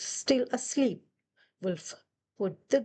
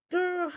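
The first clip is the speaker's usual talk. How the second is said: Wolf growling; 8 semitones higher than usual. Acted. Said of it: "said Wolf".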